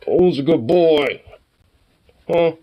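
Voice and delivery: slow high cooing to a dog. Real, not acted. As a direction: coo slowly at the dog. Talking to a pet.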